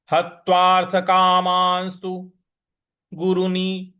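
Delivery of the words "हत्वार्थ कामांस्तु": हत्वार्थ कामांस्तु said clearly, each syllable distinct; careful recitation demo. Shown as a demonstration. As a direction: model हत्वार्थ कामांस्तु for students. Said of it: "इस प्रकार से बोलेंगे". (हत्वार्थ कामांस्तु का स्पष्ट उच्चारण)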